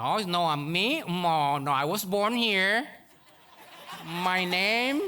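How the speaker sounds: slow, haughty mock Americanized voice; mock denying immigrant. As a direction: play the child who denies his roots. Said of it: "Que nació". (burla lenta y altiva de un hijo de inmigrantes)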